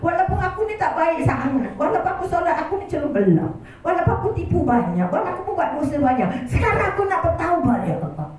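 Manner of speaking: earnest, softening plea of repentance; heartfelt prayer. Acted. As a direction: lead the crowd in a tearful confession.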